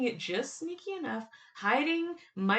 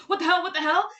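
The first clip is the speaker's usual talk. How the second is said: high, louder mock outrage, nearly laughing; Robin, extremely upset; 7 semitones higher, 4 dB louder, faster than usual. Robin reacting after Vicky, hammed-up extremely upset. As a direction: act out an upset outburst, pitched up and loud. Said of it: "but Robin's extremely upset".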